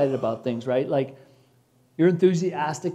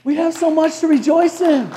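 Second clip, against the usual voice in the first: proclaimed; 10 semitones higher, 6 dB louder than usual. Shown as a demonstration.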